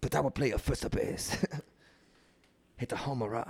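soft put-on Asian accent; quiet caricatured Asian accent; mock Asian accent. Ballplayer promising first base, soft mock Asian accent. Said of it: "And an Asian man".

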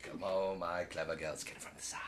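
low, soft whispered urging; whispered command. Retold or imitated. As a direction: coax the raptors in a hush. Muldoon directing raptors secretly.

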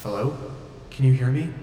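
put-on tentative young voice. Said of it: "A young voice. Tentative".

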